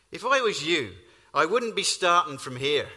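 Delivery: put-on lilting Irish country accent. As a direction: answer like an Irish local. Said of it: "in his best Irish accent".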